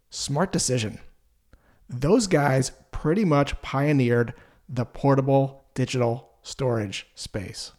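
slow, calm and validating. Shown as a demonstration. Salesperson calmly validating a prospect's choice, slow and even. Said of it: "say this in a calm voice".

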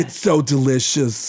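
slow, drawn-out gushing delight; mock breathy gush. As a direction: drag out the praise as if tasting. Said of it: "who talks like that?".

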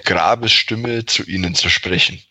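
steady, deliberate narrator voice; story narration. Acted. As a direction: read it like spooky game text. Narrates text adventure scene.

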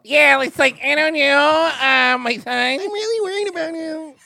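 squeaky mock altered-voice dad; disguised deep voice. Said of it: "they pitch him down like a girl".

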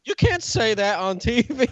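slow mock-scandalized host; Steve Harvey. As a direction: imitate a host drawing out his disapproval. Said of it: "I love Family Feud".

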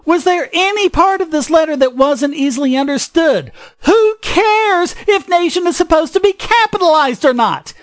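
indignant rant. Real, not acted. Podcaster ranting about needless grammar corrections, indignant. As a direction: rant in indignant rhetorical questions. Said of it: "the rant I'm about to make".

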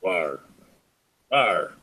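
low playful growl; monster growl. Pretend. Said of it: "I'm a big scary monster".

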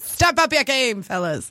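put-on old-timey newsboy call; 1920s paperboy hawking; Newsies voice. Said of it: "What was that voice?".

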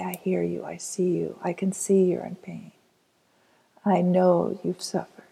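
put-on quiet, tender words to the inner child; tender reassurance. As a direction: soothe them like holding a small child. Adult speaks to inner child.

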